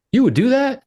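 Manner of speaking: a client who can't believe the offer; surprised client. Retold or imitated. Client hears referral fee offer.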